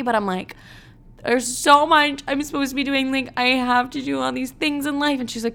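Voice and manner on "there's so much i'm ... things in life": anxious whine. Retold or imitated. Anxious wail.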